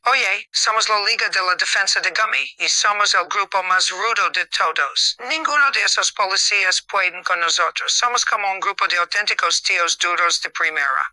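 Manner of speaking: put-on cocky gang boast in heavy Spanish accent; strong Spanish accent, tough-guy brag; thick Spanish accent. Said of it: "In a thick Spanish accent".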